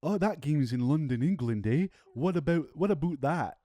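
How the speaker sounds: hammed-up Canadian accent. Podcaster jokes about London, England, hammed-up Canadian accent. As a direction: put on a caricature Canadian lilt. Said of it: "I can't even do a Canadian".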